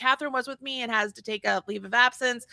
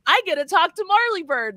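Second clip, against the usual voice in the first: higher, louder mock gushing; pretend fan excitement; 6 semitones higher, 6 dB louder than usual. Host acting out Robin's dreams, pretend fan excitement. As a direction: play a fan dreaming out loud.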